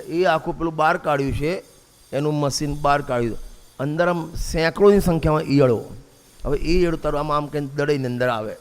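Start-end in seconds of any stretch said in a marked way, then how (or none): none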